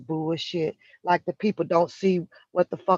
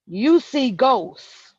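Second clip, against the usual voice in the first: very slow, louder, each word weighted; slow emphatic; 4 semitones higher, 4 dB louder, much slower than usual. Real, not acted. Telling the woman she sees ghosts, slow and heavy. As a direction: lay it down word by word.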